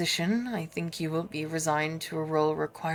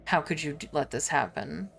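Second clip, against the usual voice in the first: a low, stern noble reproaching a subordinate; stern lord Abelard; 3 semitones lower than usual. Acted. Lord Abelard rebuking Clementia, low and stern. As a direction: scold her like a disappointed lord, lower.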